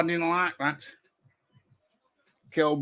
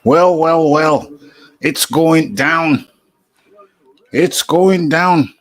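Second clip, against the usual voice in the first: put-on broad northern English accent, loud and slow; hammed-up northern English announcer; 11 dB louder, slower than usual. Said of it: "this is me northern voice".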